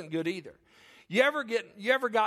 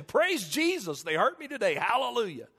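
mock cheerful praise; 3 semitones higher than usual. Pastor mocking a fake super Christian, mock cheery. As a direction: sarcastically praise God for getting hurt. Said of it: "I don't walk around saying".

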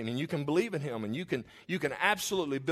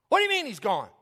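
incredulous Peter; 6 semitones higher than usual. Acted. Peter questioning the women.

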